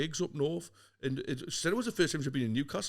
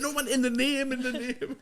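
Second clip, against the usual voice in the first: imitating a friend; 9 semitones higher than usual. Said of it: "He went".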